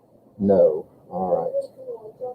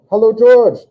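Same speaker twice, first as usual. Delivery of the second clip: voicing greeting; 9 semitones higher, 6 dB louder than usual. Teacher voicing hallway greeting.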